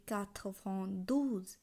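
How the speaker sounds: "quatre vingt douze" slowly, word by word; French pronunciation demo. Shown as a demonstration. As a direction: set "douze" apart, letting it fall. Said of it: "বিরানব্বই উচ্চারণ হবে".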